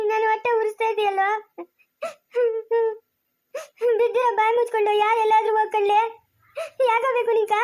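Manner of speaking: a touch of angry exasperation; exasperated scolding. Acted. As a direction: scold the child, fed up. Parent scolds crying child.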